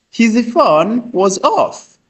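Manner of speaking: slow, high model sentence for learners; slow teaching take. Shown as a demonstration. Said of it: "ashobora kuvuga ati".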